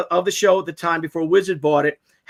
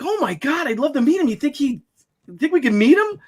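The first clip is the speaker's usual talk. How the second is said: excited fan; 7 semitones higher than usual. Retold or imitated. Soldier excited about meeting Lou.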